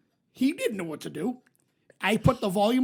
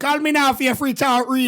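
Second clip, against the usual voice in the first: mock Jamaican accent; 3 semitones higher, 7 dB louder than usual. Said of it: "She put on an unbelievable Jamaican accent".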